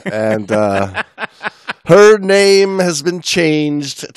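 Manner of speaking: put-on a wobbly Aussie accent drifting into British; hammed-up Australian voice, mixing accents; mixed-up Australian accent. Host reading a listener's intro in mock Australian accent. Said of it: "How many accents did I throw into that one?".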